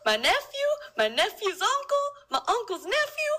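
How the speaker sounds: high, loud hammed-up rage; furious accusation. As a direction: shout it at the enemy. Mongol accusing Italians.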